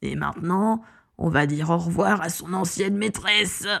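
mock-sweet villain giving an order; sinister, controlled command; menacing villain. A narrator's reading. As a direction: coax a beast with restrained menace. Villain orders dragon against owner.

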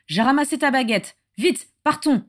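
urgent, high-pitched order to leave; chivvying. A narrator's reading. Father hurrying his son away, chivvying. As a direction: hurry him along. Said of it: "le houspilla Orion".

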